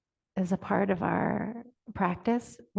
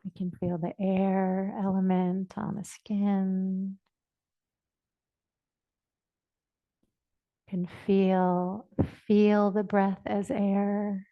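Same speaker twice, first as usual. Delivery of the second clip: measured, even phrases, long silences between; guided meditation. Real, not acted. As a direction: guide listeners unhurriedly into the body. Leads a body awareness meditation.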